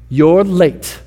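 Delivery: slow, pointed mild reproach; lightly imitated film line, drawn out; Frodo. Frodo greeting Gandalf in the Shire, mildly reproachful. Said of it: "you have to say it like that".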